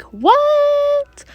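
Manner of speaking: high squeal of what then falling; disbelieving girl, how; loud shocked what; shocked disbelief. Retold or imitated. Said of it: "You're like".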